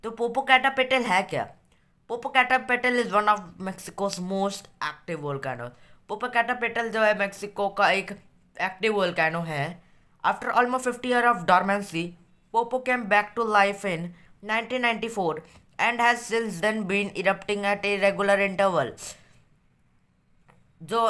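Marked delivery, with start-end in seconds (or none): 2.1-5.7 textbook reading. A narrator's reading. Reads textbook note aloud. 10.2-18.9 textbook reading. A narrator's reading. Reads textbook note aloud.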